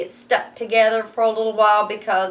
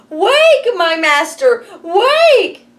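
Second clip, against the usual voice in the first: much higher, louder alarm call; harp calls out; 11 semitones higher, 9 dB louder, much slower than usual. Acted. Teacher voicing the magic harp waking the giant, high alarmed call. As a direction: cry out to rouse the master. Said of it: "called out".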